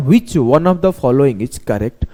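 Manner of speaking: very slow, drawn-out question reading; exam question read out. Retold or imitated. Teacher mimicking the exam paper, very slow and deliberate. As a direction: drag each word out like a printed question. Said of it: "ऐसे दे देगा".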